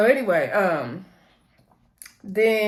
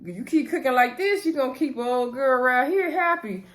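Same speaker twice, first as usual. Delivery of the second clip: higher, playful granny voice; old lady voice; 5 semitones higher than usual. Retold or imitated. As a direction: tease like a sweet grandmother. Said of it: "She was like".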